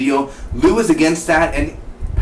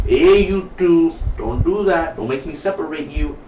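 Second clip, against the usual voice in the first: Ben; 5 semitones higher than usual. Retold or imitated. Officer breaking up two talkers, mock warning voice. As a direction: imitate a cop scolding, voice lifted. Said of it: "Ben is like".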